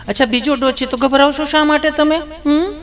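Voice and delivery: high, sugary nurse voice, teasing; sweet nurse voice. Acted. Nurse sweetly questions nervous Gabho, high cooing voice. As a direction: coo at him like an overly sweet nurse.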